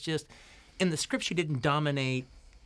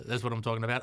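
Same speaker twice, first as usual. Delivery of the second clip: light Australian accent; 3 semitones lower, faster than usual. Shown as a demonstration. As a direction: slip into an Aussie twang. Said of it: "saying it in an Australian accent now".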